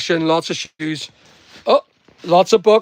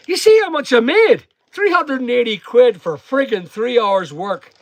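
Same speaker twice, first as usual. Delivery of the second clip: excited boast; 6 semitones higher than usual. Real, not acted. Boasting about car boot takings.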